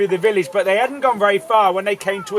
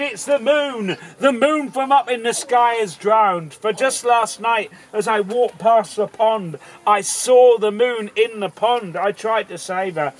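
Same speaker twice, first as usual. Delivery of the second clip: put-on girl's voice; 3 semitones higher than usual. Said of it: "she spoke these words".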